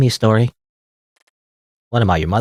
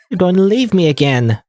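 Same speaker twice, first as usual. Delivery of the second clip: higher, on the edge of crying; tearful plea; 5 semitones higher than usual. Acted. Fleta begs her friend not to leave, tearful. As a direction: plead through tears not to be left. Fleta fears being left.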